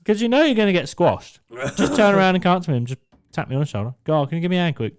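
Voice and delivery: high, loud, fast rant; indignant rant. Retold or imitated. Ranting at his boss about headphones, high and loud. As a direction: lay into the boss. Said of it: "I said".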